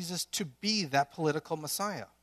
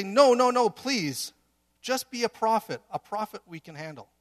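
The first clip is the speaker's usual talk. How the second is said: pleading crowd; 6 semitones higher, 9 dB louder than usual. Acted. People voiced pleading with Jesus.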